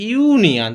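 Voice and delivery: ইউনিয়ন said with a clear yu at the start; sounding out union. Shown as a demonstration. Teacher shows students the yu sound: ইউনিয়ন with a clear yu. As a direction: open ইউনিয়ন on a distinct yu. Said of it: "তাহলে ইউ উচ্চারণ হচ্ছে".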